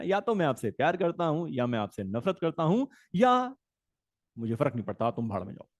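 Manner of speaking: loving, hateful, then dismissive; teacher acting out positive, negative and neutral tone; three tones shown. Shown as a demonstration. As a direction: end on a low, fading brush-off. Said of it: "तो tone यही है बेटा".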